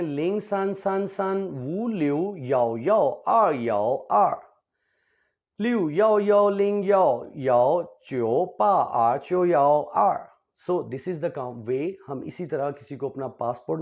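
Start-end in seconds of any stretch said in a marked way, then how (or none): 0.0-10.3 louder, higher digit-by-digit reading; Mandarin digits with yao. Shown as a demonstration. Teacher repeating the number for students, louder and emphatic. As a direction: call out each digit clearly, rising in force. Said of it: "अब इस number को दोबारा से करते हैं".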